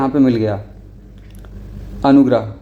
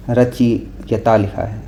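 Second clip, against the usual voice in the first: रचयिता read out slowly, syllable by syllable; teacher spells out रचयिता slowly; slow teaching read; 2 semitones lower, much slower than usual. Shown as a demonstration. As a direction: draw out रचयिता for the class. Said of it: "होता क्या है?".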